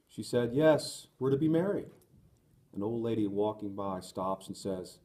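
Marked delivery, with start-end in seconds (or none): 0.5-1.9 called out loud and high with joy; joyful shout. A narrator's reading. Daniel shouting his engagement to passersby, joyful and loud. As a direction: shout the news out to everyone nearby. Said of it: "I leap up and shout to those around".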